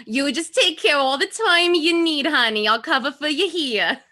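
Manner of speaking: lightly voiced Harley Quinn; a hint of Harley Quinn cooing to her friend; sweet Harley Quinn-style coo. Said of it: "she went with a Harley Quinn voice".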